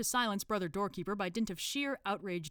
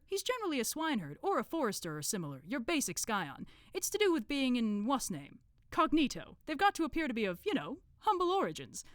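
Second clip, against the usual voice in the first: higher-voiced explainer groping for the word; Brother Plasterer; 7 semitones higher, 4 dB louder than usual. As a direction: explain it in character, searching for terms.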